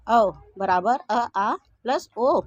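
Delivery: each vowel stretched out slowly; slow vowel demo. Shown as a demonstration. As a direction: draw out अ and ओ for the class. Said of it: "दोनों को मिला देने से औ बन जाता है". (स्वरों को धीरे-धीरे खींचकर बोलना)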